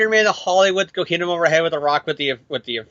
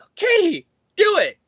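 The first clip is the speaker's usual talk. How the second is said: weary editor; 12 semitones higher than usual. Acted. Editor voiced giving in.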